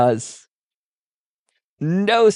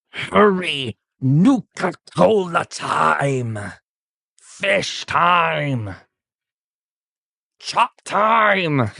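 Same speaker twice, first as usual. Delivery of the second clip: super mutant Chop; 3 semitones higher, much slower than usual. Acted. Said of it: "He goes".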